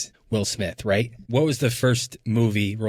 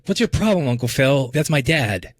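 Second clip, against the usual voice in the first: higher, tough protest; acting tough; 4 semitones higher, 3 dB louder than usual. Will confronting Uncle Phil, acting tough. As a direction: push back like a defiant teen. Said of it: "Kinda acting tough".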